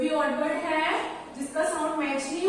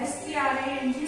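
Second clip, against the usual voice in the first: quick spelling; faster than usual. Shown as a demonstration. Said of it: "तो उसको बोलते हैं स्ट्रिंग".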